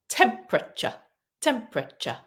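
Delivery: "Temperature" said as TEM-pruh-chuh, middle E dropped; three-syllable temperature. Shown as a demonstration. Teacher modelling "Temperature" for the class, carefully. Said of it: "So that E disappears".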